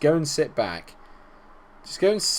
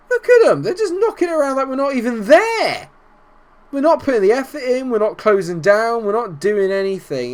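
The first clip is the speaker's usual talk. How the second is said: high, louder frustrated rant; exasperated rant; 8 semitones higher, 4 dB louder than usual. Real, not acted. Manager ranting at his lazy team, exasperated. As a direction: vent at a team that has quit.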